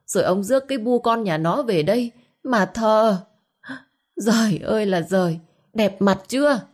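put-on old wife wailing to the dead father-in-law; wailing lament. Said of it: "bà ta gào lên chu chéo". (kể lể than khóc, giọng cao và nhanh)

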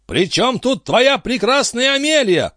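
high indignant outcry; exclaimed. A narrator's reading. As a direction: cry out in disbelief. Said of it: "вскричал дядюшка Антифер".

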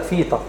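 فيتا with a plain f, "FEE-ta"; unvoiced first consonant in فيتا; voiceless F. Shown as a demonstration. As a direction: say فيتا as Fita. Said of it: "لا مش فيتا".

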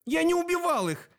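high, desperate plea of innocence; pleading. A narrator's reading. Dэн pleads with Sep not to blame him, high desperate plea. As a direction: beg him to believe you, pitched high. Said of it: "взмолился Дэн".

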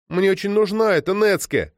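put-on high, piercing childish cry; thin cry. A narrator's reading. Girl begging Krylov for the netsuke, thin high cry. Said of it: "тонко выкрикнула девочка".

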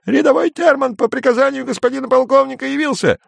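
very high cracking shout; squeaky rooster voice. Acted. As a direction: squawk it out like a rooster. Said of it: "закричал петушиным голосом".

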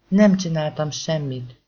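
slow, loud pleading cry; shouting. Acted. Boy crying out his innocence to the crowd, slow loud shout. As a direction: drag out the protest loudly. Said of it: "kiáltotta".

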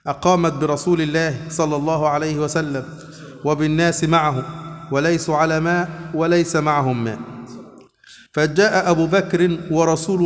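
slow, measured formal reading in Classical Arabic; hadith recitation. A narrator's reading. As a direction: read the hadith out, drawing out the phrases. Reads the hadith aloud. (قراءة حديث متأنية بالفصحى)

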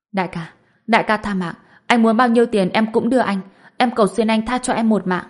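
fast, frantic pleading for mercy; begging in fear. Acted. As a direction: beg for your life in panic. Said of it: "Hắn ta run giọng nói".

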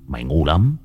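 put-on understated older-brother scolding; mild, low-key telling-off. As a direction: scold your younger brother without raising your voice. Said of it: "Tôi mắng".

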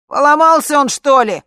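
very loud, high yell; shouting. Acted. Bodyguard on the screen yelling, loud and high. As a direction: shout the question from far away. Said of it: "закричала с экрана".

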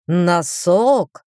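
shocked gasp of disbelief; stunned, as if struck to the heart; clutching his heart. Acted. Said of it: "схватился за сердце Бакстер".

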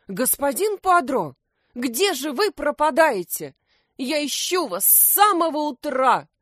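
indignant hedgehog. A narrator's reading. Hedgehog Lukum indignantly scolds the detective. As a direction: scold him for being missing all morning. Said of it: "возмутился Лукум".

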